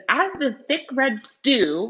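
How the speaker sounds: slow, deliberate reread of "As the thick red stew". Shown as a demonstration. Teacher rereading a phrase to her class, slow. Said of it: "So the sentence that says".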